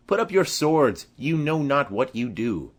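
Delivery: loud order to sheathe swords; commanding shout. Acted. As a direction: raise the voice over the brawl. Benvolio parting the fighters.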